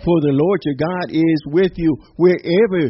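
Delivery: forceful, rising proclamation of a verse; emphatic scripture reading. Real, not acted. Preacher declares Joshua's verse to the congregation, emphatic.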